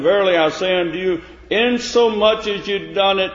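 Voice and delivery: high, loud King James reading; scripture preached loud. Acted. Preacher reading Matthew aloud, loud proclamation.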